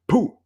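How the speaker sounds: short high-pitched "pooh" puff; sudden little burst of sound; imitated "pooh" noise. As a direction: pop out a quick, high "pooh". Imitates the tape giving out.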